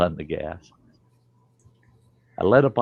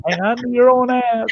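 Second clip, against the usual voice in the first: high, mocking "hang on to your own ass"; a dad mocking his own advice; mock yell; 3 dB louder than usual. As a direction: throw the advice back sarcastically. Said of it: "What the hell are you gonna hang on to".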